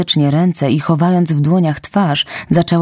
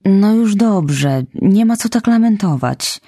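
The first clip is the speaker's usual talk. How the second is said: awkward comforting; 6 semitones higher than usual. Acted. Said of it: "trochę nieporadnie".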